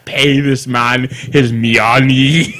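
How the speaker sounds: slow, stretched-out bad Russian accent; awful fake Russian accent; terrible Russian accent. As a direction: ham up a mangled Russian accent, drawing out each word. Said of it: "just do a terrible gibberish accent".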